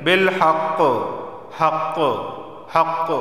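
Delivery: haqq with the qaf bounced at the stop; qalqala on qaf. Shown as a demonstration. Teacher drilling the stop, qalqala bounce on haqq. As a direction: strike the qaf and let it echo. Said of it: "आवाज़ मखरज से टकराएगी".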